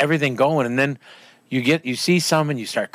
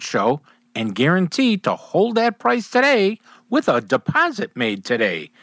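a lightly pitched-up sales pitch; radio ad read; 3 semitones higher than usual. Acted. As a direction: read the dealer ad with push.

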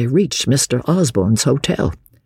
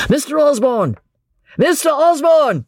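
calling out high, then higher and louder; 3 dB louder than usual. A narrator's reading. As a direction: call after him urgently, rising. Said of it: "cried Dobbin".

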